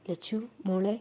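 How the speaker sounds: reach out to her, heartbroken; pitiful call. A narrator's reading. Bhadra calling to her hurt sister, sorrowful. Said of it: "Bhadra ദയനീയമായി എന്നാൽ വല്ലാത്ത സങ്കടത്തോടെ വിളിച്ചു".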